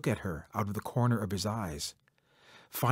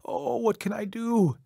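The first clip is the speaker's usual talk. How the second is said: mock crying; 7 semitones higher than usual. A narrator's reading. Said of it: "Beaver started to cry".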